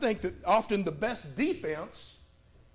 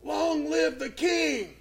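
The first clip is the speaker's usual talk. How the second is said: higher, slow ringing shout; Daniel's triumphant reply to the king; proclaimed call; 5 semitones higher, much slower than usual. Retold or imitated. Daniel calls up from the den.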